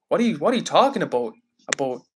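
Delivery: mock Canadian accent with "about" like "a boat". Streamer teasing Canadian viewers, imitated Canadian accent. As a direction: play up the Canadian long "oh". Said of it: "you guys do say "a boat".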